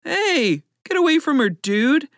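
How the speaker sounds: high, urgent warning call; distant yell. A narrator's reading. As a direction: call across to chase someone off. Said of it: "she heard someone yell in the distance".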